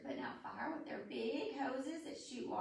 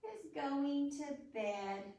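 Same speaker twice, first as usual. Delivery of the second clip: reading a rhyme. Acted.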